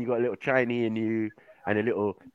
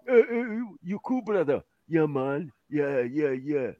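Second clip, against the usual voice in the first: imitating shopkeeper; 3 dB quieter, slower than usual. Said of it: "That's how they talk".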